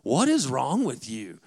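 slow, drawn-out exasperated outburst; mock frustration. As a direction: act out being fed up, stretching the words. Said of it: "I was getting frustrated".

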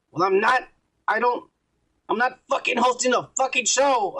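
high, indignant mock-mad protest; super serious, mad. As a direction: act out someone mad and dead serious. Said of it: "in a super serious, mad tone".

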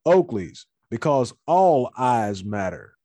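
slow dramatic promo line; wrestling promo. Pretend. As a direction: sell it like a wrestler on the mic. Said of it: "I gotta cut a promo".

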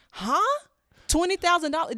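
high, loud disbelief; shocked high-pitched question; incredulous. Real, not acted. Incredulous at scam amount.

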